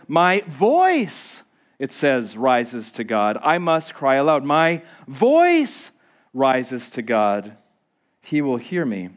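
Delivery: showing the congregation the doubled phrase; emphasized quote. Shown as a demonstration. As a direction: VOICE lifted, rises to God slowed. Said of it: "It says it two times".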